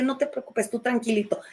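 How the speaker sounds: gently quieting your own inner conflict; soothing reassurance. Retold or imitated. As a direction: lull it like a worried child.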